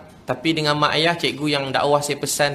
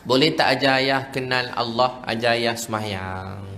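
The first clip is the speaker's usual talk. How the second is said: slow, subdued pleading, imitating a crying father; retold tearful plea; 2 semitones lower, slower than usual. Weeping father asks son to teach him prayer, understated tearful plea. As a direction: gently imitate a father humbly asking for help. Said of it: "dia nangis".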